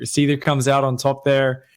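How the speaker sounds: ordinary delivery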